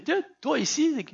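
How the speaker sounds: like bumping into a friend somewhere unexpected; mock surprise at meeting someone; surprised greeting. Shown as a demonstration. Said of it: "surpris de rencontrer une personne".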